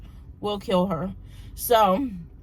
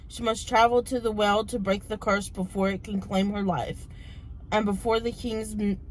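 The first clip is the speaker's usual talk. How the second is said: blurb reading. Acted. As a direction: read the back cover aloud, steady. Reads the book blurb.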